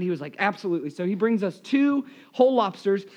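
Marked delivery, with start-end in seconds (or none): 0.4-0.9 softly obliging, a little lower; gently agree, like an accommodating waiter; kind waiter. Retold or imitated. Waiter agreeing to a diner's demand, mildly kind. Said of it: "the waiter was so kind".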